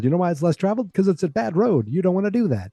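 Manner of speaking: lightly acted admonishing parent; mock parental lecture.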